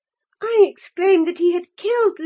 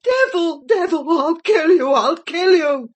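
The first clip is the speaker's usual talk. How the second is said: frantic shriek; 4 dB louder than usual. A narrator's reading. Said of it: "he rather shrieked than said".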